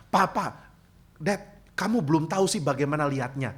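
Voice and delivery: put-on child correcting dad. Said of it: "Anak saya mengatakan".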